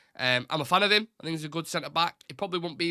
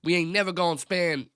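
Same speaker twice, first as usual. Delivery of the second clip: a mock Southern American accent, a bit higher and louder; bad Southern American accent; 4 semitones higher, 4 dB louder than usual. Retelling James's view on United spending, hammed-up Southern American accent. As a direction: ham up a Southern American accent on "ain't never". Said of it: "that's a terrible accent".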